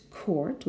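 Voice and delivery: "court" with the R clearly sounded; R pronounced. Shown as a demonstration. Teacher shows learners the R, "court" with R pronounced. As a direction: say "court" with a strong R. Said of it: "with the R very much pronounced".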